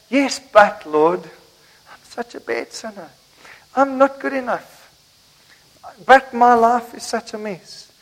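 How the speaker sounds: slow, drawn-out excuse to the Lord; whining believer. Acted. Believer answering the Lord's love with slow self-pity. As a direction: plead your unworthiness, mildly whiny. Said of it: "And we go and say".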